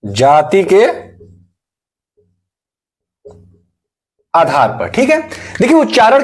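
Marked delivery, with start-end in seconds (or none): 0.0-4.9 each word drawn out slowly for note-taking; slow dictation. Shown as a demonstration. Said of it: "जातियों के आधार पे।". (धीरे-धीरे लिखवाते हुए)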